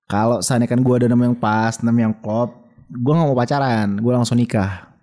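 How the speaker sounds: measured, phrase-by-phrase repeat; deliberate restatement for the listener; clearer restatement. Real, not acted. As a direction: say it over for clarity, pausing between phrases. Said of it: "Coba ulang-ulang, gak jelas deh ngomongnya".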